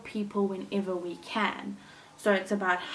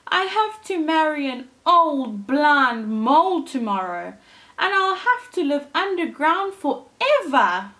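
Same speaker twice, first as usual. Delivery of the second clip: mild weeping; 6 semitones higher, 6 dB louder than usual. Acted. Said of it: "she wept".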